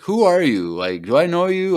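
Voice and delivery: high, wary voice of a stranger asking who you are; mock suspicious lady. Podcaster voicing the Force hero lady checking visitors, high and wary. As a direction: pitch it way up like a suspicious guard lady.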